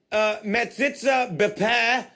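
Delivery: "Metzitzah Bepeh" carefully sounded out, slow; Hebrew pronunciation. Acted. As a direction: read "Metzitzah Bepeh" slowly, syllable by syllable. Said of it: "Your Hebrew accent was phenomenal".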